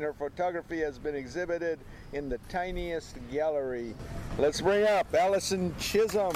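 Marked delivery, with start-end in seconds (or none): 4.4-6.4 loud stage announcement; announcing loudly. Real, not acted. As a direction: call her up to the stage. Host calls poet to stage.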